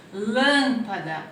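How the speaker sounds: lâmpada spelled out slowly, syllable by syllable; slow syllable demo. Shown as a demonstration. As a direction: stretch out "Lâmpada" for the class. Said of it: "então aqui é o M".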